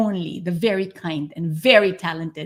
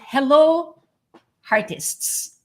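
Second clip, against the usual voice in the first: excited high hello; 8 semitones higher, 5 dB louder, slower than usual. Real, not acted. Greeting listeners by nickname.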